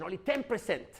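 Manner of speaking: "ten percent" punched with a falling close; stress on TEN PERCENT. Shown as a demonstration. Trainer repeating the key figure, stress on "ten percent". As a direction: drive "ten percent" home as the last word. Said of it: "how I say ten percent".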